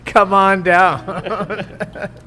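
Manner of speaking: slow laughing come on down; mock announcer through laughter; laughing game-show call.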